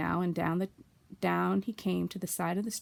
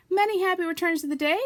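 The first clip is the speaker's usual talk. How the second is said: Pooh calls across the river, high and loud; called out; 10 semitones higher, 6 dB louder than usual. A narrator's reading. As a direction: call it out over the water. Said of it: "called out Pooh".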